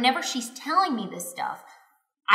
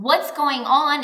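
raised-voice mock yell, higher pitched; retold screaming; 5 semitones higher, 6 dB louder than usual. Husband demanding answers in a fight, retold yelling. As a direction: demand it loudly, imitating a heated argument. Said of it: "I'm screaming back at him".

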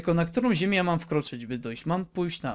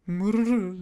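mock purr; 4 semitones higher, 5 dB louder than usual. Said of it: "dlatego tak mruczy".

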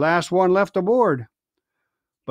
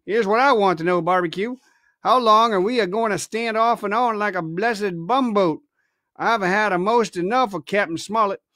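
grumbling pirate; 3 semitones higher than usual. Acted. Israel Hands complaining.

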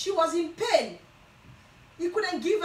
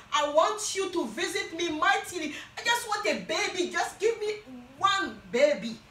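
crying prayer; 3 semitones higher than usual. Acted. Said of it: "she started crying".

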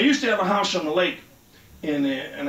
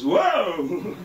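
put-on kid whoa; 3 semitones higher, 3 dB louder than usual. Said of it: "the kid goes".

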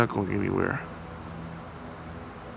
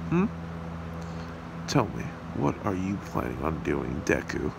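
villain taunt; 5 semitones lower than usual. Acted.

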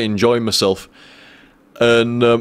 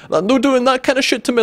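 outraged; 12 semitones higher than usual. Retold or imitated. Outraged at the trick.

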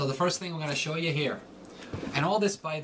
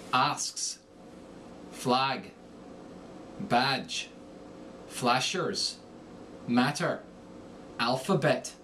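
Irish accent, short A turned toward O; Irish accent word drills; Irish A vowel opened to O; much slower than usual. Shown as a demonstration. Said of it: "the short A becomes the short O".

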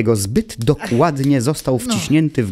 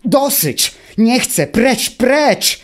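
tantrum-like shriek of refusal; furious yelling; 13 semitones higher, slower than usual. A narrator's reading. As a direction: shout it with all your strength, fists clenched. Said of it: "krzyczał z całych sił Automateusz".

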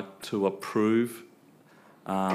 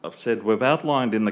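raised, carrying restatement; speaking up; 6 dB louder than usual. Real, not acted. Officer repeating his point for a hard-of-hearing questioner, speaking up. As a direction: say it more firmly and clearly for a listener who missed it. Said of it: "could you speak up, please?".

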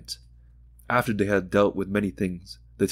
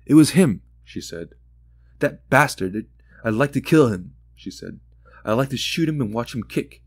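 raging; 3 semitones higher, 3 dB louder than usual. Acted. Mother raging at the caller.

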